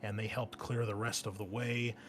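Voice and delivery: game master scene setting. Acted. Game master briefing the marine squad on their mission, measured narration. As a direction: lay out the mission briefing deliberately.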